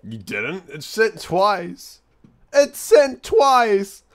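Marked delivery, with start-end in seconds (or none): 0.7-2.0 slow, stunned disbelief. Real, not acted. Same message sent twice. 2.5-4.0 much higher, louder and slow; shocked disbelief. Real, not acted. Same message sent twice.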